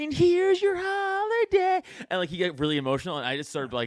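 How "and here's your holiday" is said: very high, loud, slow, drawn-out whiny voice. Retelling how Tom delivers a line: imitating Tom's whiny voice. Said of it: "a really whiny Tom voice he does".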